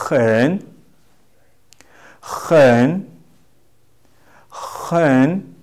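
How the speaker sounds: "hen" stretched, falling then rising; model pronunciation. Shown as a demonstration. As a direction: lead the class in a dipping "hen". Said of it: "Everybody say".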